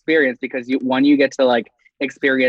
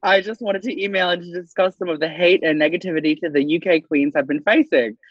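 put-on British accent. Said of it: "That was a nice little accent there".

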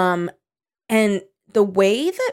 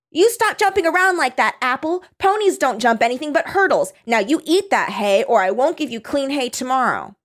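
put-on scolding boy; 5 semitones higher than usual. Reading Bart scolding his dog, high childish scold.

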